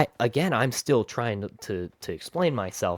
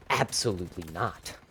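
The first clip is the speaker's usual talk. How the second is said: stern teacher refusing; 4 semitones lower, 5 dB quieter than usual. Retold or imitated. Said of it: "she, she just goes".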